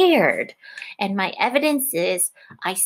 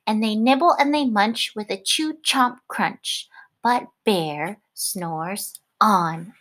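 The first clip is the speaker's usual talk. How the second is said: lively picture-book read-aloud; reading to children. A narrator's reading. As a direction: read it like storytime on the rug. Teacher reads picture book aloud.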